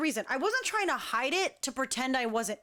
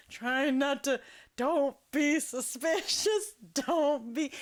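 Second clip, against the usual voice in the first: words squeezed out through suppressed giggles; stifled laughter; slower than usual. Retold or imitated. Laughing with her partner while hiding a hurt foot, stifled giggles. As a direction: try not to laugh and fail a little.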